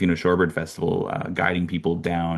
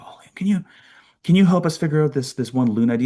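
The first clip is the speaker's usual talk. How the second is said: high-pitched quick retold question; put-on higher voice, asking a favour; imitated birders' plea; 8 semitones higher, 4 dB louder, faster than usual. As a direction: imitate people stopping someone for help.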